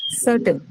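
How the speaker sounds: certain stressed on CER, then falling; stress on first syllable. Shown as a demonstration. Teacher gives certain to the class, stressing CER. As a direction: put the weight on CER in certain. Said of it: "first syllable".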